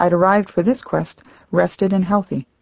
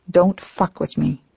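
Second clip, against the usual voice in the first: slow, tight, held-back fury; choked through clenched teeth; slower than usual. Acted. Fasting woman choking out her outrage at the voice, slow and clenched. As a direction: grind it out through the teeth, slowly. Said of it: "choked out from behind clenched teeth".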